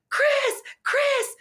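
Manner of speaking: high, loud urgent call. Retold or imitated. Screaming for his wife to come, loud call. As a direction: shout for her from the shower. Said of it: "screamed immediately for my wife".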